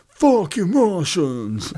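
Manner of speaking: angry Polish bouncer. Retold or imitated. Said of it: "had a row with a Russian one".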